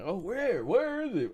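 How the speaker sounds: soft, high mock horror-movie voice; hushed question from a doomed movie character; horror movie victim. Co-host spoofing horror victims near danger, hushed mock voice. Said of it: "Every horror movie, that's what you hear".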